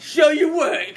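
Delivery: laughing tease. Real, not acted. Teasing demand, laughing.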